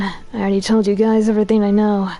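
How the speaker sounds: man doing a woman's voice, detective; lightly voiced tough policewoman; police lady voice. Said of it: "here comes my police lady voice".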